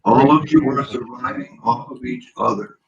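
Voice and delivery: muffled, like talking from a barrel; distant, hollow mic sound; inside a barrel. Real, not acted. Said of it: "sounds like in a barrel".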